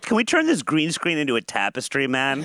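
lazy stoned hippie, man; stoner. Pretend. Mock stoner talk, calls for a reggae singer.

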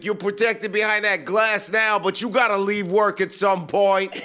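hammed-up threatening yell; mock yelling. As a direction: taunt through the glass. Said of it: "the guy was yelling".

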